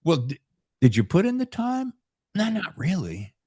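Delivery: mock coach. Mock coach questioning golfer.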